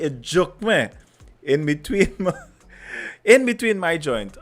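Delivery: Trinidadian dialect, lightly put on; Trinidadian accent. Shown as a demonstration. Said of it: "say it like a Trini?".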